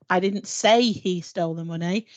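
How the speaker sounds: "say" stressed with a rising tune. Shown as a demonstration. Demonstrating email tone to colleagues, stress on "say". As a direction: lift and lean on "say". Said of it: "put the emphasis on a different part".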